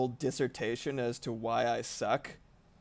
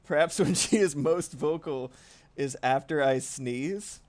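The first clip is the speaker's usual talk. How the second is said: cat voice; 3 semitones higher, 6 dB louder than usual. Acted. Voicing the cat's vocal moment.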